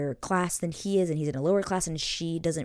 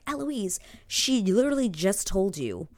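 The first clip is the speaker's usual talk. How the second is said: raised pitch, pleading exasperation; exasperated; 5 semitones higher, 3 dB louder than usual. Pretend. Fan scolding Eloise for missing the confession, exasperated. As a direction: scold a clueless character in mock disbelief. Exasperated appeal to a show character.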